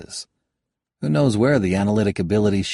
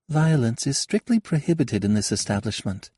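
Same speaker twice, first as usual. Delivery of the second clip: with a grin; 6 semitones higher than usual. Acted. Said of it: "she said with a grin".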